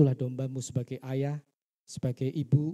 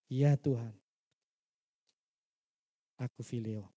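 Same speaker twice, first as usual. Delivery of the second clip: tearful; 3 semitones lower than usual. Retold or imitated. Simon, in tears, answers Jesus with a mild tearful hush. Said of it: "Dia nangis".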